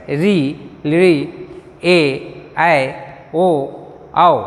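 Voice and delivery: plain Hindi vowel reading, item by item. Shown as a demonstration. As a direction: read री ली ए ऐ ओ औ the Hindi way. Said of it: "Hindi में पढ़ेंगे कैसे?".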